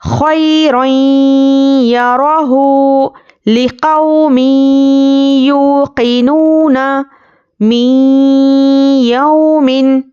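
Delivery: slow, drawn-out tajweed recitation; Quranic recitation. Shown as a demonstration. Teacher recites idgham examples for students, slow tajweed. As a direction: chant each example with measured pauses.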